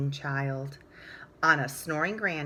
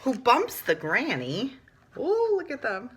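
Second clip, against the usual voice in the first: climax excitement; 3 semitones higher, slower than usual. A narrator's reading. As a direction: hit the big crash of the story.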